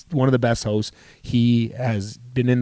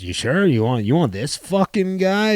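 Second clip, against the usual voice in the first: mock disbelief; 6 semitones higher than usual. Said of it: "You know, typical Dino".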